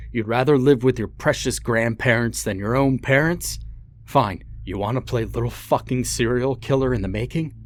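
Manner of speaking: bitter rant. Acted. Father sneering at his son about the grandparents. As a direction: taunt the boy with scorn.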